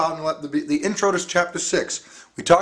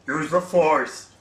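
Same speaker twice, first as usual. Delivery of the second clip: slow, drawn-out bad creature-sage impression; hammy, halting sci-fi mentor voice; horrible Yoda; much slower than usual. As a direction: do a badly faked wise little alien master. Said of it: "a horrible Yoda impression".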